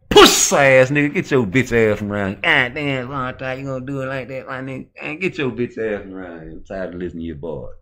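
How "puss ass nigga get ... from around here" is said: loud, high yelling insults; shouted street insult. Pretend. Nineties homeboy yelling at the hustler to leave, loud and higher. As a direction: run him off the block loud.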